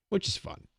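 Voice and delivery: ordinary talk, nothing marked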